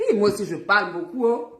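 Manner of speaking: talking between sips; while sipping a drink. Real, not acted. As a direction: mouth wet from a drink. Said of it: "pardon, je bois un peu".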